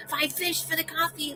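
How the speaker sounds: high-pitched mock improv oddball; Gary. Improv player naming an absurd coffee price, imitated high. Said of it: "And he'd be like".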